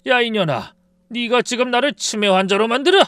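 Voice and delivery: furious shout at daughter-in-law; father-in-law blowing up at the clinic, yelling; explosive anger. A narrator's reading. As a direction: roar it out, outraged. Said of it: "시아버지가 갑자기 폭발하셨어요".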